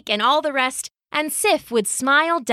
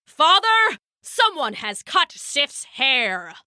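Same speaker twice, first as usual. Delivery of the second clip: urgent roar; 5 semitones higher than usual. Acted. Thor reporting to Odin, roar easing into slow dismay. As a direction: call out, then draw out the news. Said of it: "roared Thor".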